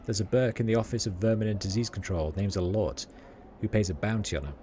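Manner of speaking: lightly voiced Sigil street accent; rat catcher's accent. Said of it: "it's all written in their accent".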